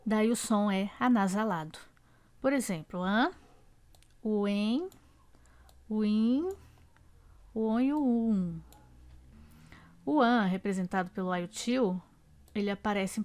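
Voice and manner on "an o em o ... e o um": "an", "em", "in", "on", "um" said slowly with the air through the nose; nasal vowels demo. Shown as a demonstration. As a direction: stretch each nasal vowel out on its own. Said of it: "o ar sai pela boca e pelas fossas nasais".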